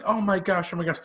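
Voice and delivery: lightly imitating a gushing, overdone reaction; mocking Kayla Braxton. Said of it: "Kayla was just like".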